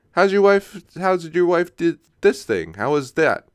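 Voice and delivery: high, bright mock catch-up question; mock eager question. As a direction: play the keen friend checking in. Acting out a follow-up question.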